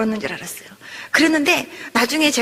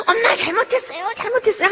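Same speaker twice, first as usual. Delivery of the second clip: put-on high-pitched child begging mother; imitated child's frantic apology; pleading child; 7 semitones higher than usual. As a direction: beg like a small child clinging to mum. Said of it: "그냥 아이가 엄마 다리 붙잡고".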